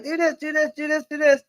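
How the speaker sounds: high, quick list of tips; mock chorus of advice. Viewers' advice mimicked as a high chorus. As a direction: rattle off everyone's advice. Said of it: "y'all was like".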